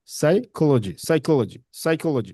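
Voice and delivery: সাইকোলজি with weight on কো; stress on second syllable. Shown as a demonstration. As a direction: press the কো in সাইকোলজি. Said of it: "স্ট্রেসটা হচ্ছে কি second সিলেবলে". (সাইকোলজি শব্দে দ্বিতীয় সিলেবলে জোর)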